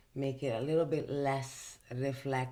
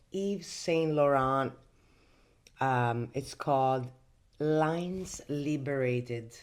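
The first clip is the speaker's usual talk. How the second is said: slow, loud product announcement; 5 dB louder, slower than usual. Real, not acted.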